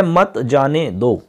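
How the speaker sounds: मत जाने दो slow, as one unit; separate phrase after comma. Shown as a demonstration. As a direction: draw out मत जाने दो evenly. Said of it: "फिर लिखा है".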